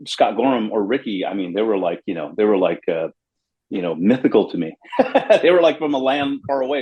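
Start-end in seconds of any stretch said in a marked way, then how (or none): 5.0-6.8 says it through a real laugh; laughing at his own awe of his heroes. Real, not acted. Bassist laughing about meeting his mythical heroes.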